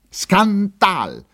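very high cry, falling at the end; repeated outraged shout. A narrator's reading. Lieutenant repeats his scream at the officers, outraged shout. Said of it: "wiederholte er".

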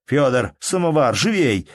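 impatient call. A narrator's reading. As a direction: hurry the servant with the samovar. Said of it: "крикнул Калинович".

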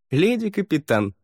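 high, amused echo of the title; amused smirk. A narrator's reading. Faria repeats the crew's title, smirking. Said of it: "Фария усмехнулась".

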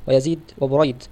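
يزيد with ya and zay, then بريد with ba and ra; careful name pronunciation. Shown as a demonstration. Teacher to students contrasting two names, carefully. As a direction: set يزيد against بريد, marking the first letters clearly. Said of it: "الأول بالتحتية المفتوحة أوله بالزاي المكسورة".

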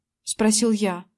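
ordinary delivery

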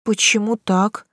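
slow, hoarse morning voice. Acted. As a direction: croak it out just woken. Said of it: "хрипловато уточнила я".

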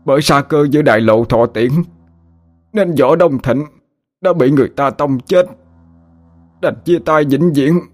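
halting start, rising to high theatrical lament; feigned dying struggle. Pretend. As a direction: gasp out fake last words, slowing at the end. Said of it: "giọng điệu rất khó khăn".

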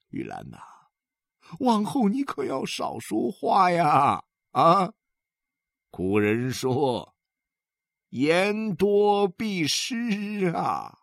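put-on a moved husband, near tears, preaching old sayings with sayings slowed right down; sighing, heartfelt counsel to Yulan; husband's emotional advice. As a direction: pour out a year of hurt to his wife. Husband's long heartfelt speech.

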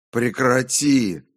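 high, loud cries, rising in desperation; shouting. A narrator's reading. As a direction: beg it to stop at full voice. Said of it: "кричал я".

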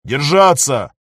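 loud pilot's order to brace; shout. Acted. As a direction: bark it so everyone braces. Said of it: "кричит Захар".

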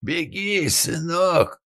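high urgent shout. A narrator's reading. Father yelling to his son to flee, high shout. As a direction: yell at him to run. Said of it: "крикнул отец".

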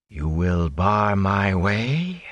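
very slow, looming threat; drawn-out ominous sorceress voice; ominous challenge. Acted. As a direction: make every word a warning. Moraine looms over the guards.

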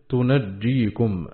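"تنجيكم" very slowly as tunajjīkum, jim doubled. Shown as a demonstration. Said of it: "مشددا".

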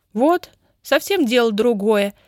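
pleased exclamation, slow; exclaiming. A narrator's reading. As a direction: exclaim with satisfaction. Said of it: "воскликнула Даша".

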